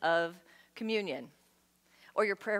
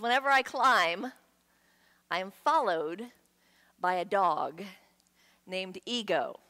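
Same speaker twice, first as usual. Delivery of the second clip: quoting slowly; 3 semitones lower than usual. Retold or imitated. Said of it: "He says".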